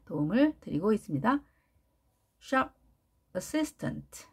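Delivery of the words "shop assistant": shop and assistant split apart, each said separately; stress on shop. Shown as a demonstration. Teacher splitting the word to show stress. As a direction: shop set off alone, then assistant rising. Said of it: "이렇게 돼야 되겠죠?".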